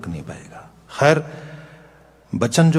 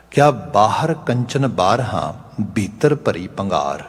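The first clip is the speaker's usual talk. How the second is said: reciting scripture; slower than usual. Acted. Recites Kabir verse.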